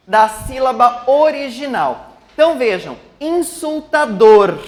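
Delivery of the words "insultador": INSULTADOR slowly, higher and louder, landing long on DOR; stress on final DOR. Shown as a demonstration. Teacher showing the strongest syllable, INSULTADOR stressed on DOR. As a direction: stretch out INSULTADOR with the weight on its last syllable, DOR. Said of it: "nós temos a sílaba mais forte".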